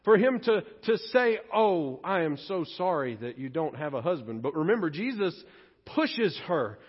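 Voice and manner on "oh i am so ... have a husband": a hint of mock compassion; mock sympathy. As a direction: lower and softer, mock sympathetic. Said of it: "respond in compassion, in kindness".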